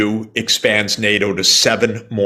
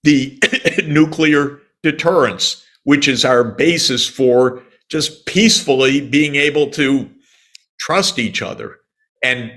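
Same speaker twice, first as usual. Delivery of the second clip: high, urgent plea that starts breathless; begging them to stop, pitched well up; voicing the Russians' alarmed warning; pleading Russians; 4 semitones higher than usual. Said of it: "The Russians said".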